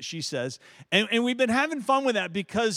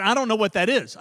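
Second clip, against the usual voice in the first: puzzled wife; 4 semitones higher, 7 dB louder, faster than usual. Retold or imitated. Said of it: "And she said".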